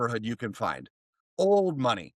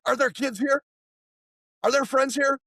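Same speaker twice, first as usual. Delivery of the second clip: put-on high-pitched little-boy call; imitated eager child; 11 semitones higher than usual. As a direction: call out like a kid at the door. Boy calling at neighbours' doors.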